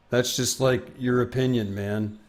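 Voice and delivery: barely voiced mellow dude; a hint of the Dude, muttered; faint laid-back slacker line; Jeff Bridges impression. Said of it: "not a good impression".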